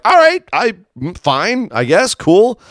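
high, reluctant mock Miz. Host voicing Miz greeting his new partner. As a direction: shrug it off like a let-down wrestler. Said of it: "Miz was like".

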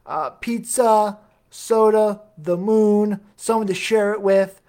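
half-hearted character impression, slow list of items; Kevin Malone. Host quoting The Office, failed attempt at a character voice. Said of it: "Kevin Malone voice".

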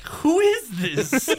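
high, slow, puzzled question; confused caller. Retold or imitated. Host retelling an unexpected phone call, baffled and slow. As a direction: draw it out, baffled. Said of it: "I was like".

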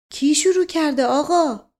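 worried question. A narrator's reading. Servant asking his shaken master who started it, worried. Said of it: "مشقاسم با نگرانی پرسید".

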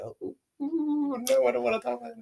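retold reluctance. Girl telling friend how she ducked gossip, high mock reluctance.

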